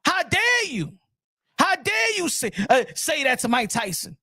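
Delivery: high-pitched mock outrage; outraged fan. Boxing world scolding the accuser in high mock outrage. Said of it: "the boxing world was mad at Desiree Washington".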